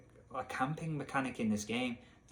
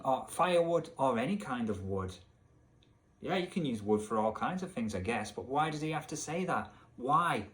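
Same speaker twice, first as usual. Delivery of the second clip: ordinary talk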